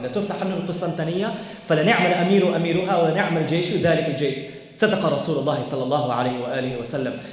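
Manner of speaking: rapid rhythmic Arabic recitation; hadith recitation. Shown as a demonstration. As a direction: rattle off the hadith in fluent Arabic.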